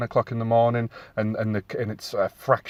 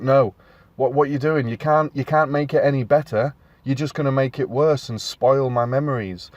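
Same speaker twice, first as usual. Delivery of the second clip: nervous protest; 3 semitones higher than usual. Acted. Film fan to remake makers in his head, nervous protest. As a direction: act out a touch of nervous objection. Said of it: "I get instantly nervous".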